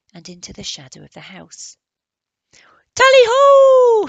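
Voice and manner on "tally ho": long, very high, very loud cry; hunting halloo. Acted. Barney sets off after the leopard, hallooing. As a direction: cry it like a fox hunter. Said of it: "he hallooed".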